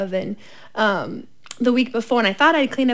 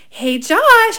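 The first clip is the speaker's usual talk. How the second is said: calm but urgent; 7 semitones higher, 3 dB louder than usual. Retold or imitated. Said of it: "as calmly but urgently as I could".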